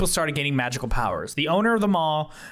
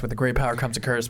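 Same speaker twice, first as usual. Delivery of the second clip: fast, lower quoted line; quoting the dude; 5 semitones lower, faster than usual. Retold or imitated. Player quoting the dude's saying to the bird, brisk. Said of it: "And that's what the dude says".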